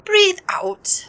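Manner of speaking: unvoiced whisper; whispered breath cue. Crewmate guiding the captain's breathing, in a whisper. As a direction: breathe it out as you say it.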